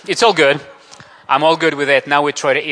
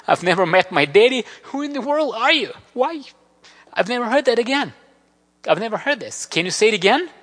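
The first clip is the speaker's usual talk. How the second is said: high, rising voice of a woman near tears, higher on the later lines; overwhelmed woman; 5 semitones higher, 4 dB louder than usual. Retold or imitated. Lady at the door, asking who loves her, near tears. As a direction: let her voice climb as the disbelief builds. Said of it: "And she's like".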